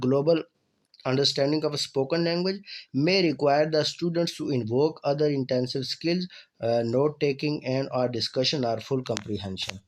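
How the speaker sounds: slow, careful reading of a definition; reading aloud. Acted. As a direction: read each word out clearly for the class. Reads English definition slowly.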